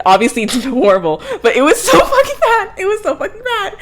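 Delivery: high, loud squeal of laughter through words; laughing. Real, not acted. Reviewer mocking her own bad accent, laughing hard. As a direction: crack up helplessly while talking.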